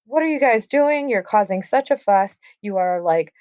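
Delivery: lightly acted exasperated scolding, starting high; mock telling-off with a touch of annoyance; mildly P.O.'d. Prince scolding brawlers disrupting his streets, mildly annoyed. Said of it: "He is P O'd. The prince is not happy".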